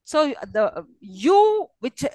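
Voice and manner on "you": "you" drawn out slowly and rising; tonic syllable. Shown as a demonstration. Teacher isolating the tonic syllable, drawn-out rising "you". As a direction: stretch "you" with an upward glide. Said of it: "you is a tonic syllable".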